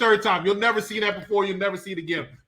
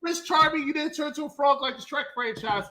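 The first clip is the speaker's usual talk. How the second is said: higher teasing female voice; mock sweet woman voice; 8 semitones higher than usual. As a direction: tease him like a fairy tale princess. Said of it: "and she's like".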